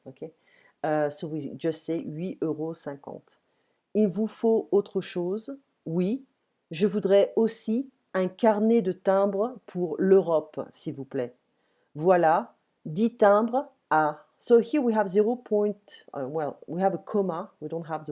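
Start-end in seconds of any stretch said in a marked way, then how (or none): 3.9-14.2 slow, careful French for learners; slow dialogue reading. Shown as a demonstration. Teacher reads a post office dialogue to learners, slowly and clearly. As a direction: read each role out slowly and clearly.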